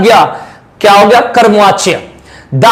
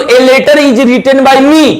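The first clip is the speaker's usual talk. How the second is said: slow dictation; much slower than usual. Shown as a demonstration. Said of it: "अगर बोलूं".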